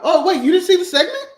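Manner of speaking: high, loud disbelieving questions; surprised. Real, not acted. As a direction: react in genuine disbelief.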